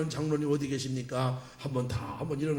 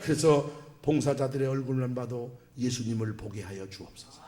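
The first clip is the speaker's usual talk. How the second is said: prayer voice; 2 semitones lower than usual. Shown as a demonstration. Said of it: "항상 기도할 때 그렇게 해요".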